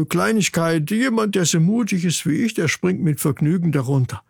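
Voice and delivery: cocky little brother putting on bravado; lightly voiced boastful chick. Chick Ingmar claims he will gladly jump, boastful. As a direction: brag as a young bird.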